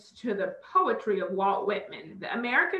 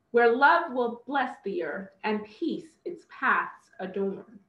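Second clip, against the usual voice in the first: slow, measured verse reading; deliberate, stately poetry reading; poem recitation. Acted.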